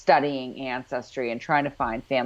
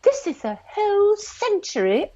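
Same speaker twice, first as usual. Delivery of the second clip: mock pissy snap. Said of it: "Claire's getting all pissy with Roger".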